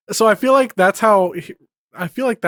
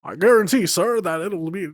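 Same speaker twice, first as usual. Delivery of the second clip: sly, slinking lizard voice; a sly chameleon purr; sly sticky chameleon. Shown as a demonstration. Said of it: "I need a better voice than that".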